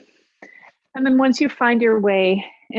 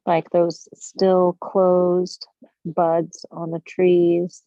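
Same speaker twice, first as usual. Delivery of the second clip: guided meditation. Real, not acted. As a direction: guide them into stillness with long pauses. Leads a breathing meditation.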